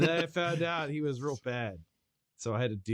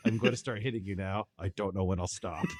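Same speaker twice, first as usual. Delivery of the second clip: Vegeta impression; 5 semitones lower than usual. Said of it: "lifted that straight from Vegeta".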